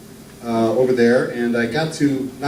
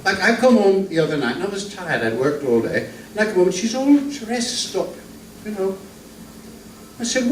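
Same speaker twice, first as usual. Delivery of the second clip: lightly voiced Archie Glenn; 4 semitones higher than usual. Introduced old northern comic telling jokes to the crowd, lightly voiced. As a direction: ease into a genial old music-hall comedian.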